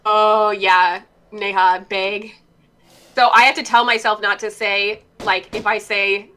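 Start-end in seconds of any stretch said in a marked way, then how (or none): 1.9-2.4 "beg" for bag, vowel raised toward "beg"; Midwestern bag vowel. Shown as a demonstration. Showing her natural accent, bag said as "beg". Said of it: "it sounds like beg".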